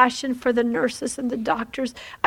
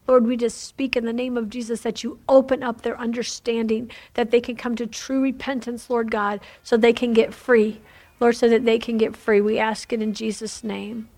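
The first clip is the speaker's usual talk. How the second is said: fervent prayer; 3 dB louder than usual. Acted. Prays aloud for the listeners.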